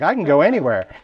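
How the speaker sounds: mock, all sass, showing off, sassy and boastful. Retelling own earlier boast about stamping anywhere: imitating own sassy tone. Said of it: "being all sassy and being like".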